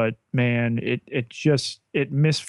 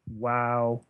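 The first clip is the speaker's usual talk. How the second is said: dry; 7 dB quieter, slower than usual. Retold or imitated. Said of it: "I was like".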